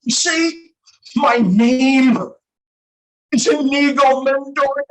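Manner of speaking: high, loud, overwrought declaration with long pauses; hammed-up avenger, straining high on each phrase; vengeful vow. Son vowing revenge on cancer, melodramatic and high-pitched.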